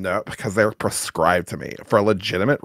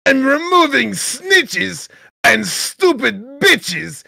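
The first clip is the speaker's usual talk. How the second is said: mock proud declaration; 13 semitones higher, 3 dB louder than usual. Defending self in chat, high mock proclamation. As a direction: proclaim it very high, stretching the rhymes.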